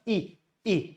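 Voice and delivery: E as a brief "i", like in "bit"; E said as the small i vowel; short E sound. Shown as a demonstration. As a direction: clip E to a short "ih". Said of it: "chota E".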